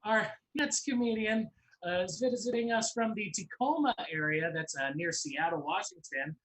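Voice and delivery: upbeat announcer welcoming the next comedian; host announcer. Acted. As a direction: bring the next act on with energy. Host intro.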